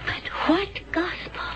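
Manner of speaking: hushed, bewildered whisper; whispered in disbelief. Acted. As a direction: breathe the question almost without voice.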